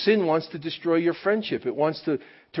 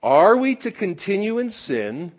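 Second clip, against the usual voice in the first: scripture reading; 3 dB louder, slower than usual. Real, not acted.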